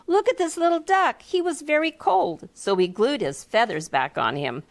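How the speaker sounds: a hint of a child showing off; lightly voiced character. Character voice in story.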